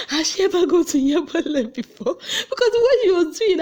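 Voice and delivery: high, loud laughing question; laughing disbelief. Real, not acted. Asking viewers about Lucy, laughing in disbelief.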